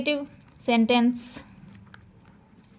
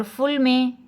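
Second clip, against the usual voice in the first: slow syllable demo; 3 semitones higher, slower than usual. Shown as a demonstration. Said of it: "ब्यू में देखें यू की भी sound".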